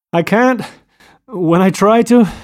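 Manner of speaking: high, loud bursts, broken off unfinished; too overcome with mirth to finish; hilarious. A narrator's reading. Gatsby trying to explain through his mirth, hilarious. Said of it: "he said hilariously".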